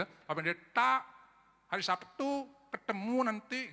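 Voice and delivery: put-on slow Balinese accent, rising "Pendeta". Pastor imitating a Balinese church member, slow Balinese accent. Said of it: "itu orang Bali".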